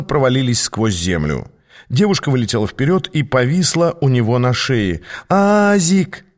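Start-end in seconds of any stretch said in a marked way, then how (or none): 5.3-6.2 high bright call of a name; joyful cry. Acted. Girl greets her old friend Aas, overjoyed. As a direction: call his name with delight.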